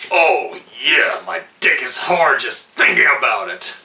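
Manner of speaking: shouted, half-crying delight; imitated sudden glee. Reviewer imitating Bruce Willis turning from tears to eagerness, a tearful excited shout. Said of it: "his whole mood shifts from being upset".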